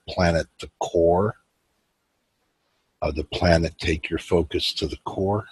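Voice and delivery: unhurried meditation guide, long pauses between phrases; guided meditation. Real, not acted. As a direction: ease them into it with measured, spacious phrasing.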